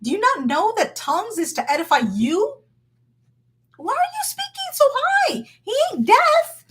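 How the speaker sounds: mock high-pitched church voice; mocking high tongues. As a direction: squeal it up high like a showy tongue-speaker. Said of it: "my father's not deaf".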